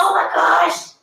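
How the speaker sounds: excited squeal. Acted. Reacts to cupcakes.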